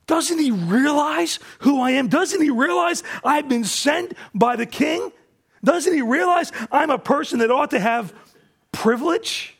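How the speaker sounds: indignant Naaman. Retold or imitated.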